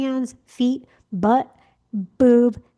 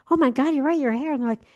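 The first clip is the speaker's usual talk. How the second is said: excited gushing; 5 semitones higher than usual. Retold or imitated. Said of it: "are like".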